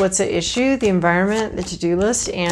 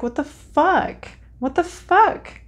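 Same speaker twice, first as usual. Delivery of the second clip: higher, slow, exasperated what the fuck; mock frustrated outburst; 8 semitones higher, slower than usual. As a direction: play the stunned client throwing up their hands. Client's frustration voiced as quote.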